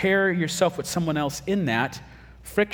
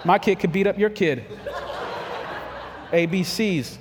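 laughing mock boast; 4 semitones higher than usual.

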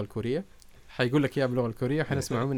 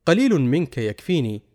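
formal standard arabic; 4 dB louder, slower than usual. Shown as a demonstration. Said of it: "كان بيت المتنبي هو".

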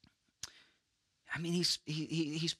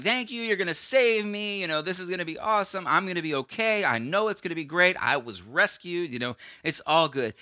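confident; 4 semitones higher, faster than usual. Retold or imitated. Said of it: "Jonah has this confidence".

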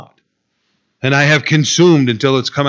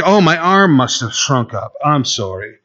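sarcastic God. Retold or imitated. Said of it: "God gives very sarcastic responses".

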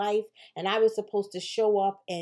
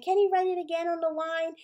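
librarian voice; 9 semitones higher than usual. Retold or imitated. Librarian quoted in story.

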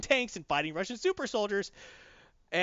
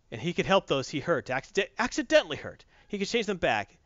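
ordinary delivery

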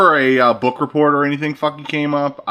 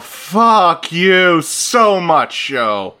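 drawn-out slow disgusted curse at the show; exasperated curse; 3 semitones higher, 4 dB louder, much slower than usual. Real, not acted. Fed up with a terrible show, slow disgusted curse. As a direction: drag out the fuck in pure disgust.

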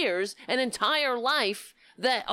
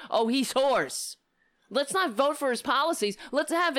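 mocking pundits; 4 semitones higher than usual. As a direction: drag out "Oh, he's hoarse" like a whining pundit. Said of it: "Does it matter?".

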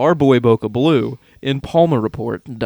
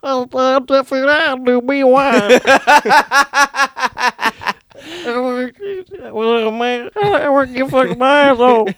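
much higher, loud cartoonish Beetlejuice voice with laughs between lines; 12 semitones higher, 3 dB louder than usual. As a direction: ham up a manic Beetlejuice impression. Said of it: "You know what voice I figured out?".

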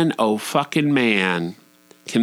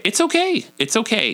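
put-on high, lilting parent-to-child soothing; reassuring parent; 12 semitones higher than usual. Parent to upset toddler about arguing, reassuring. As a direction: imitate soothing a small child, pitched up.

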